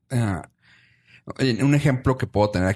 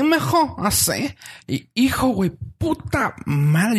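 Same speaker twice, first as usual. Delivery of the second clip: put-on much higher rustic old lady voice; Doña Lencha voice; 10 semitones higher, slower than usual. Imitating the owner's ranch-born mother, high rustic voice. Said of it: "Pero que te habla así".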